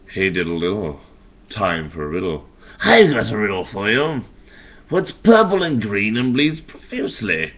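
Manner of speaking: lightly voiced Joker, teasing singsong riddle; a hint of the Joker toying with the Riddler; Joker taunting Riddler. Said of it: "another line that I created for an interaction with the Riddler".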